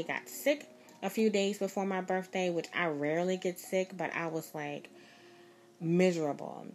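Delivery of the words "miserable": breathy whisper of misery. Real, not acted. Telling how sick she felt, whispered. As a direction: let the word sink to a whisper.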